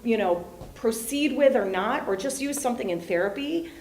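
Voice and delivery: hammed-up high, loud voice of a mentor offering help; lightly playing the helpful expert; mock mentor offer. Therapist jokingly voicing an expert mentor, high and loud. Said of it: "one of my lines is".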